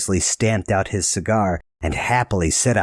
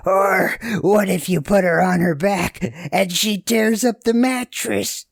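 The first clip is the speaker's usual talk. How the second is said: laughing; 12 semitones higher than usual. A narrator's reading. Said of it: "while he laughed".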